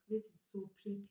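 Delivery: soft, breathless whisper of delight; a hushed whisper admiring the mirror; whispered awe. Retold or imitated. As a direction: whisper it to yourself in wonder.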